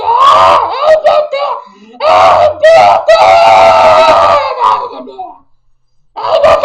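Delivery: "R B T" yelled slowly, drawn out; furious shout. Pretend. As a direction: scream the letters at the reporter. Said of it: "final yelled letters". (berrando "R B T" devagar, furiosa)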